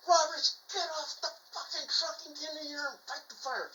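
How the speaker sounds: acted-out furious command; retold yelling. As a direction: imitate a captain yelling orders, name hit hardest. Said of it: "the captain's yelling at me".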